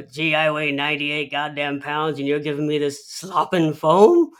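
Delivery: hint of a grumpy old man griping at his son; Burgess Meredith. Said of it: "Burgess Meredith responds by saying".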